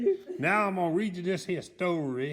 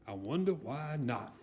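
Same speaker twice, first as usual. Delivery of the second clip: grumbling; 4 semitones lower, 5 dB quieter than usual. A narrator's reading. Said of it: "grumbled Mister Bump".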